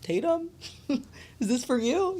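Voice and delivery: mock driver asking through the window, slow, with a laugh; lightly voiced driver checking the name; imitating the Lyft driver. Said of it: "rolls down the window, like".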